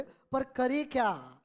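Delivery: very slow, stretched dialogue line; theatrical drawn-out question; dialogue delivery. Shown as a demonstration. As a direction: deliver it like a character in a drama, drawing out each word. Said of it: "dialogue के अंदाज में बोले".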